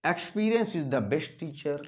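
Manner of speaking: slow, deliberate read of the sentence; slow clear dictation. Shown as a demonstration. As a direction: read it out slowly for students. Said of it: "repeat of dictated sentence".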